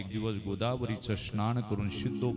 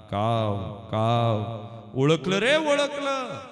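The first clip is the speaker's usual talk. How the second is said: high, loud crow cawing and speaking; crow's voice; 6 semitones higher, 7 dB louder than usual. Acted. The crow answers Vitthalpant, high loud cawing voice. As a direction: caw it out like the old crow.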